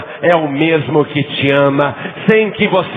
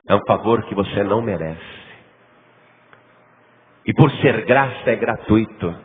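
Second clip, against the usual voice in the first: usual speaking voice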